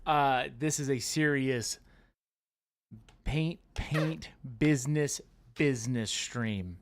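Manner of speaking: talking around a pen; words muffled by a pen; pen in teeth. Real, not acted. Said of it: "That's my pen in my mouth".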